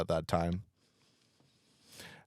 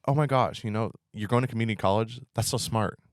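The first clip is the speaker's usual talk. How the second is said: condescending fake praise; 4 semitones higher, 4 dB louder than usual. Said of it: "they're like".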